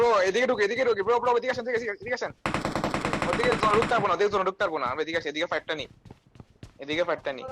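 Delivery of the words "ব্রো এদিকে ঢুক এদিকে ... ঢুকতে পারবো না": higher, louder urgent calls; calling out. Real, not acted. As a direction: yell directions to the squad. Calling teammates during fight.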